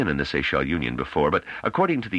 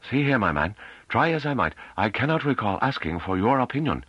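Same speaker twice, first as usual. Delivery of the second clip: high-pitched officious boss, rebuking; testy superior; 8 semitones higher than usual. Acted. Head rebuking his underling, testy and high.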